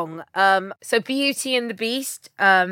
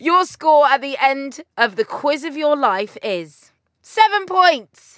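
game show reveal; 3 semitones higher, 4 dB louder, slower than usual. Acted. Quiz host announcing the score.

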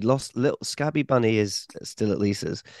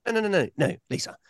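mock panic; 12 semitones higher, faster than usual. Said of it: "I'm like".

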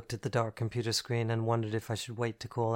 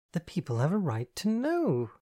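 chiding; 6 semitones higher than usual. Acted. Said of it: "Andy chided".

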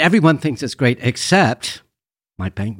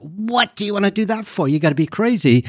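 high-pitched imitation of dismayed parents; disbelieving parents; 9 semitones higher than usual. Filmmaker quotes parents reacting to their teenager's ambition, high-pitched disbelief. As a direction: mimic parents balking, pitched well up.

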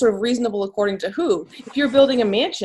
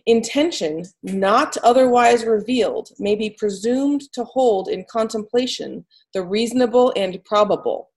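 slow reading. Shown as a demonstration. Reading the best part of the opinion aloud to a co-host, slowly. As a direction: read slowly and deliberately. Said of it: "do this part slowly".

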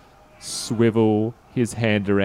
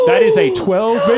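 excited shout; 8 dB louder, faster than usual. Real, not acted. Cheering a great dice roll.

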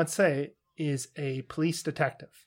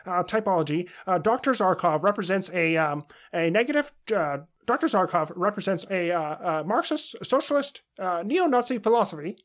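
Jordan Peterson impression; 3 semitones higher than usual. Host spoofing a pundit's Flash Gordon analysis, pompous lecture voice. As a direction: deliver grand jargon like a self-serious professor. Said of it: "That's not a good Jordan Peterson".

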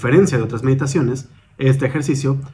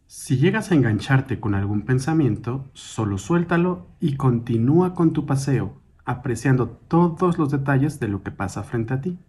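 calm, measured meditation guide, slightly softened; guided meditation; 3 dB quieter than usual. Acted. Guide leading a listener through a mindful walk, calm guided meditation. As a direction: guide them gently through each step, with long pauses.

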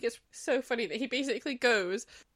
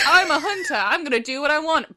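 loud, pitched-up bluster; mock defiant hunter; 5 semitones higher, 6 dB louder than usual. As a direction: brag back at the plea, hammed up. Acts hunter defying Dorian's plea.

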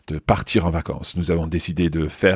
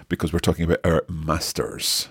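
usual speaking voice

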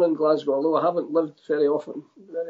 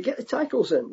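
quoted touchline order, a bit higher; old-school coach call; 5 semitones higher, 4 dB quieter than usual. Retold or imitated. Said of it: "We used to say".

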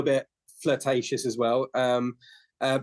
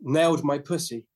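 lightly posh lady, lingering on Darling; a hint of an upper-class client on the phone. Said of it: "really posh voice".

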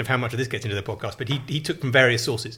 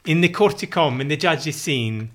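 renaissance fair olde speech; 2 semitones higher than usual. Pretend. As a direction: tell it like a mock minstrel. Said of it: "Are you literally speaking in Old English?".

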